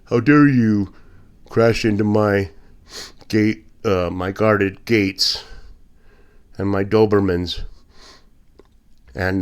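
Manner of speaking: mock indignant rich man. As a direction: play a spoiled tycoon, half-mocking. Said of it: "they act all indignant".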